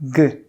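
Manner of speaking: G as a hard g at the back of the throat; G sound. Shown as a demonstration. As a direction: start from a throat g. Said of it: "start saying first the letter G".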